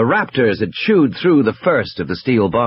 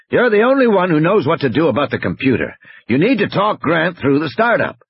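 high, urgent objection; insistent game warden overruling a colleague; Muldoon objecting; 8 semitones higher than usual. Acted. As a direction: argue firmly and urgently.

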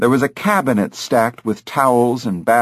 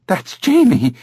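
parrot mimicking; 9 semitones higher than usual. Parrot speaks in boy's voice.

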